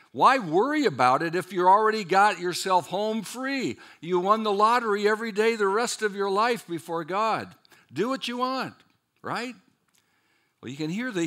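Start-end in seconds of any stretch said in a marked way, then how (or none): 0.1-9.6 higher, louder, breezy mock shrug; mock careless objector. Preacher voicing a careless believer's objection, mock breezy. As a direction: voice the lazy objection with a sneer.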